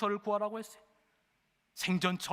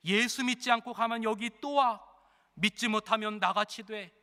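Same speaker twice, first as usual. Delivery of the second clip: louder and higher, hectoring; gruff preaching convict; 4 semitones higher, 4 dB louder than usual. Acted. Convict lecturing a prisoner with Bible verses, loud and hectoring. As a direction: hammer scripture into him.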